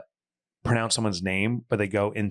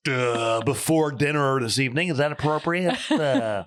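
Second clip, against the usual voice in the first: news reporter voice; 3 semitones higher than usual. Retold or imitated. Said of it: "they talk like that at home".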